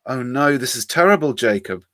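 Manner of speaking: talking through a mouthful of food; mouth full. Acted. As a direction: say it round a bite of chicken. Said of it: "through a mouthful of chicken".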